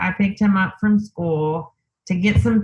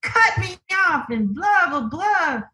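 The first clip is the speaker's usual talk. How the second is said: much higher, exasperated ranting about the driver; retold cussing; 10 semitones higher than usual. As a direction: replay the fed-up outburst at the woman who cut in. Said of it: "cussing and being like".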